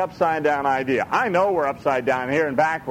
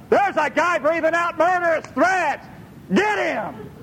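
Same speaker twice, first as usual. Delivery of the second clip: eager pick; 10 semitones higher than usual. Pretend. God shopping, spots eager man.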